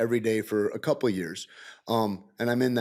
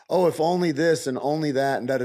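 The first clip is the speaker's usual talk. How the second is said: louder, sing-song imitation of mourners; mocking quote; 5 semitones higher, 4 dB louder than usual. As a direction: mimic them with a sarcastic lilt. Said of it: "everybody says".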